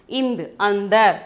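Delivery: "ind" as a short nasal, then "andar" joined up; sound, then word. Shown as a demonstration. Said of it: "we have to pronounce ind".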